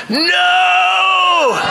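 a loud, high growled "No!". Shown as a demonstration. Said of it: "We just need a loud growl".

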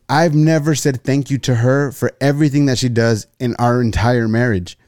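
mock-exasperated husband, voice pushed up; retold exasperation. Student confronting his professor about his marriage, retold exasperation.

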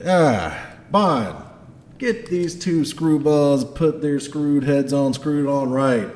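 exasperated Scottish dwarf boss; Garm. Acted. Dwarf boss ordering a subordinate to sort out screwballs, Scottish accent. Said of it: "has a Scottish accent".

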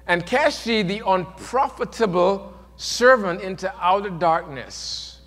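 slow, measured Bible reading; solemn King James reading; scripture reading. Acted. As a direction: read the verse with weight.

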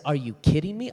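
loud, high, fed-up challenge; retold lost temper; angry retort. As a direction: let him have it, indignant. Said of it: "I lost my temper".

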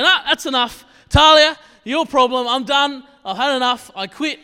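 re-enacted parent's loud, high-pitched blow-up; exasperated outburst. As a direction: shout it like a parent who has had enough. Retold parent giving up, exasperated.

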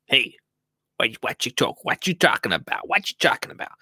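lightly voiced mafia heavy, playing innocent; a wiseguy brushing off a complaint, mildly done; mafia reenactment. Supplier brushing off a garden centre, lightly voiced mafioso. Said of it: "that is an exact impression of what happens".

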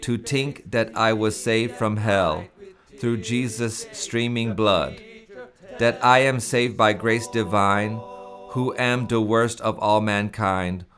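measured recital of hymn verses; solemn hymn recital. Shown as a demonstration. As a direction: read it like a solemn old poem.

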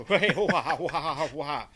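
laughing wah wah wah babble; muffled wah wah talk. Retold or imitated. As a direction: mimic someone talking with their arms, laughing. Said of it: "Like this".

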